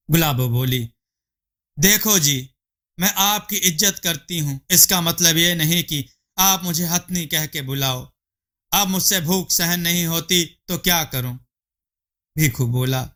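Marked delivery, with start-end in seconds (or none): 1.8-11.4 wife retorting to her husband's insult, mildly indignant; offended wife. Acted. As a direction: push back at being called an elephant.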